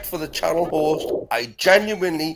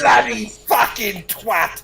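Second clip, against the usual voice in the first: mock shout; 4 semitones higher, slower than usual. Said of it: "so do a northern slang".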